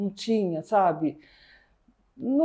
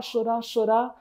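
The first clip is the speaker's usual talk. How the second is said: ordinary talk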